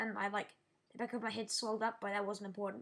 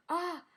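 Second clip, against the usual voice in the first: higher-pitched mock yelp of pain; short imitated "ah" of hurt; retold cry of pain; 6 semitones higher than usual. Injured kid answering the adult, mock cry of pain.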